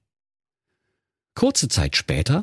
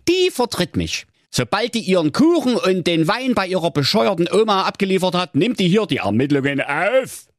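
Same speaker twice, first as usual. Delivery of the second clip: gruff police commissioner; 9 semitones higher than usual. Acted. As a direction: play the weary commissioner. Commissioner's quoted speech.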